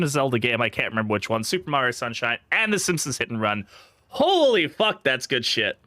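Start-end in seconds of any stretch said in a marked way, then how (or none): 4.1-5.0 sudden high, loud exclamation of amazement; amazed outburst. Real, not acted. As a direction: blurt it out, really stunned by the loot. Sees a big loot haul.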